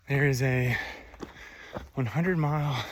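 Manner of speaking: breathless uphill talking; out of breath, panting lightly. Real, not acted. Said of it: "so I'm out of breath".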